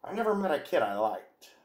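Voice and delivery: a light hint of a grumpy old comedian; W C Fields impression. Reading the quote as W C Fields, lightly voiced. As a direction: toss it off like a cranky old film star. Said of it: "my W C Fields impression".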